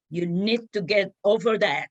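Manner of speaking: imitating a mentor's firm push; firm admonishment. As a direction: tell them firmly to get over it. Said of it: "That's how she said it to me".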